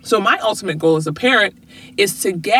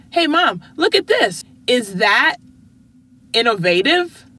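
put-on child voice; 3 semitones higher than usual. Daughter voiced in retold story.

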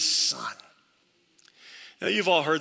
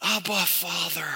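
tender prayer. Shown as a demonstration. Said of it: "That's how I go to the Father now in prayer".

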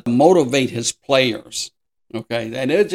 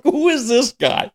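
laughing puzzled quote; 10 semitones higher than usual. Retold or imitated. Puzzled at casino billboard.

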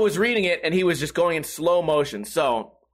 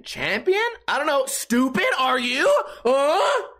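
mocking yell; 7 semitones higher, slower than usual. Real, not acted. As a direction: taunt the commenter with rising yells. Mocking commenter, yelling.

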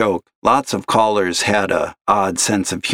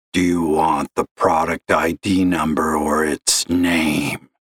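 put-on gravelly old caller; 4 semitones lower than usual. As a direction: drag it out like a heavy smoker. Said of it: "gravelly voice like that".

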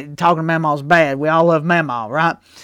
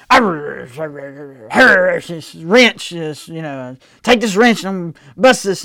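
mock angry dad; slower than usual. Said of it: "he talks to himself when he gets angry".

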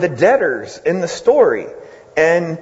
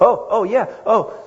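a caught-out Pharisee, high and fast at the end; startled; 7 semitones higher, faster than usual. Retold or imitated. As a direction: caught off guard, higher and flustered. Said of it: "all of a sudden he's like".

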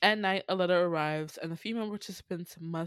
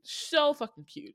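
higher, gushing burst; 9 semitones higher, 3 dB louder than usual. Shown as a demonstration. Host gushing over a cute couple, excited. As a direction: squeal the words with delight. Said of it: "second take higher, louder".

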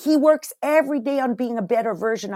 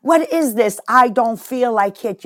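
high, loud imitation of a whiny kid; mock bratty kid; 4 semitones higher, 4 dB louder, slower than usual. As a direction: mimic a spoiled kid being bonked, hammed up. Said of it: "and going".

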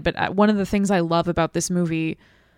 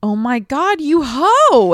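put-on high, loud teasing girl; teen girl voice; 8 semitones higher, 6 dB louder, slower than usual. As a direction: yell it like a bratty teenage girl. Imitating teen girls' play fighting.

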